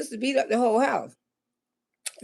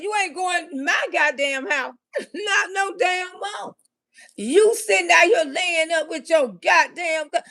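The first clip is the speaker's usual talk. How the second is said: angry yell; 3 semitones higher than usual. Retold or imitated. Yelling at boyfriend.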